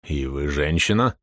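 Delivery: low, slow, scornful question; contemptuous colonel. Acted. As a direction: drop the question with disdain. (низко и медленно, с презрением)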